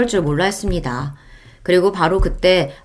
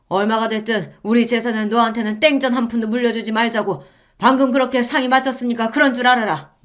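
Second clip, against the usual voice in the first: a hint of an angry father; lightly voiced stern father; 4 semitones higher than usual. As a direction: lay down the verdict. Father lectures daughter. (엄하게 꾸짖는 아버지)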